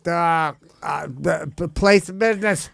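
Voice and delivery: hesitant Boston accent attempt. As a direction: try out a wobbly Boston accent. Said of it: "let's do a Boston accent".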